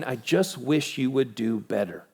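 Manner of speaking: softly voiced disapproving father with a frown. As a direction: act mildly let down, voice dropped. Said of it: "standing up above us with a frown and saying".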